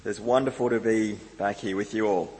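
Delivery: hoarse from a cold; croaky voice, pushing through a cold. Real, not acted. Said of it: "I sound a little bit croaky".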